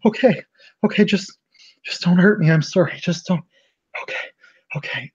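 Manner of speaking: high, pleading begging not to be hurt; frightened pleading. Acted. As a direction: beg for mercy, voice up high. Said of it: "she's like".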